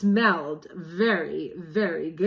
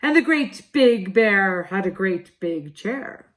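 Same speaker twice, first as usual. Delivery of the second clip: silly big bear voice; 5 dB louder than usual. Acted. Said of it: "in a silly voice".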